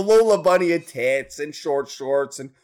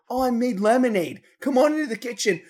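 put-on decoy girl; 5 semitones higher than usual. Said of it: "the girl would go".

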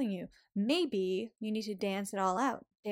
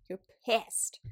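whispered you're pissed. Pretend. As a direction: breathe it out in a whisper. Urging to act pissed.

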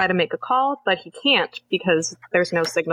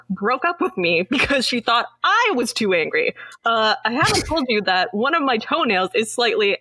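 mock-indignant list of grievances; sassy rant; 3 semitones higher than usual. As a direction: rattle off grievances with retold sass. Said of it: "He just pulls out the sass".

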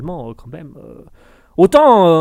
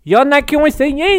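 much higher and louder put-on threat; mock menacing voice; 11 semitones higher, 5 dB louder than usual. Streamer repeats his warning to chat as a hammy villain.

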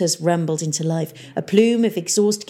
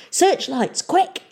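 urgent order; 11 semitones higher, much slower than usual. Acted. Pirate mayor ordering his crew mid-raid, urgent shout. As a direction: bark for searchlights. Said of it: "he said".

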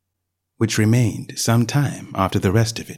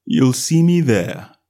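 lazy cat voice; 3 semitones higher, slower than usual. A narrator's reading. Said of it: "said the cat".

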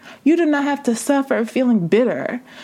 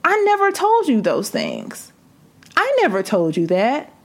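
a gently voiced God, pitched higher then settling; lightly voiced God questioning; voicing God; 4 semitones higher than usual. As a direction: ask it as God would, tender but firm. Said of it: "And God is saying".

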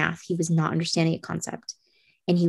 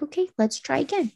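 higher-pitched coaxing voice, retold; encouraging parent; 8 semitones higher than usual. Mother to her son back from his break, encouraging. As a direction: coax a child into another try.

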